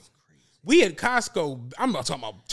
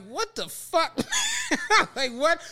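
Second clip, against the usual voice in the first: higher, shouted disbelief; shocked outburst; 10 semitones higher, slower than usual. Retold or imitated. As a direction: yell it in shock. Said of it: "I was like".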